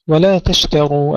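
thin T then thick R in تشتروا; light ta, heavy ra. Shown as a demonstration. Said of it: "نرقق التاء ونفخم الراء".

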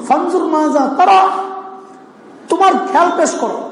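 high-pitched, pressing request; a preacher voicing a father's urgent question, lightly acted; emphatic appeal. Acts father asking son's opinion. (উঁচু স্বরে জোর দিয়ে জিজ্ঞাসা)

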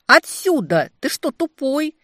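loud, high furious yell; angry shout. A narrator's reading. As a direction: scream the insult at him. Heroine yelling at demon. (гневный крик)

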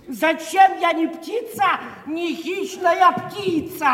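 pompous mock declamation of a verse, slowing on the second line; theatrical sneering verse reading; mocking recitation. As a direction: ham up the poet's lament to ridicule it. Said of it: "И пишет".

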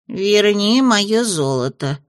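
slow, insistent imp demand. Acted. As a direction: demand it back, slowly. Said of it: "потребовал бес".

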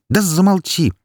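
high, sharp shut up; losing patience, cut him off; snapping. A narrator's reading. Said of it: "не выдержала я".

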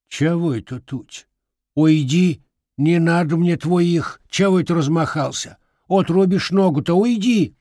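put-on scolding old woman. Grandmother scolding the boy waving an axe, shrill and loud. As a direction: shoo him off sharply.

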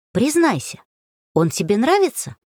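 sly, teasing question; conspiratorial. A narrator's reading. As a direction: lean in like sharing a secret. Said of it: "заговорщическим тоном сказала Варенька". (заговорщическим тоном)

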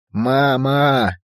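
high panicked cry for mom; frantic scream. A narrator's reading. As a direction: scream for mother in terror. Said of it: "истошно завопила Эра".

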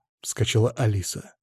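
plain reading voice

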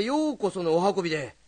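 hurried storyteller greeting; rushed rakugo opening. Shown as a demonstration. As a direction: rush through ようこそのお運びで. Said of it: "もっとゆっくり。".

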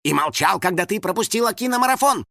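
fury at being shut out; building rant. A narrator's reading. House spirit rants at the locked door, building anger.

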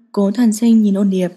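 ordinary delivery

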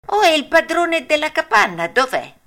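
amazed to find nobody; surprised puppet. A narrator's reading. Pinocchio asking where the owner is, surprised. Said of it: "disse Pinocchio meravigliato".

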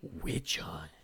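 breathy menacing whisper of "Witch hunt". Acted. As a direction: hiss "Witch hunt" low and voiceless. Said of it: "Braun whispered".

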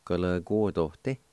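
Ka, le, guo, do, di joined into one smooth word; run together. Shown as a demonstration. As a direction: blend the syllables Ka, le, guo, do, di together. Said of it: "is pronounced like this".

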